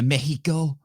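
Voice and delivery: MEXICO as MEH-hee-ko; mock show-off MEXICO with an h sound; affected Spanish pronunciation. Mocking pretentious travellers, Spanish-style MEH-hee-ko for MEXICO. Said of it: "talks normally and then they're like".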